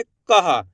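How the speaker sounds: "कहा" as का followed by a voiced हा; two-part pronunciation. Shown as a demonstration. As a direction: sound हा right after का in "कहा". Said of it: "का के बाद हा का उच्चारण निकालेंगे".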